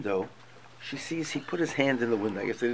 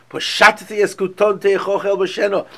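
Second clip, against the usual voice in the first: disgusted tone; 6 semitones higher, 8 dB louder than usual. Retold or imitated. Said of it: "speaks to him in the most disgusting tone".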